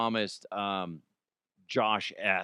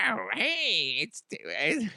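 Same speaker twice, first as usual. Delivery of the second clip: higher, breathy try at her voice; attempted pop-star voice; 6 semitones higher, slower than usual. Shown as a demonstration. Host tries again at a pop star's hello, higher try. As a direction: attempt a pop-star hello and fail. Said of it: "You're like".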